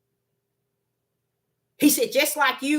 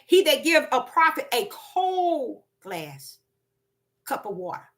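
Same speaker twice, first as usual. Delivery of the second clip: slow quoted line. Retold or imitated. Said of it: "That's why he said".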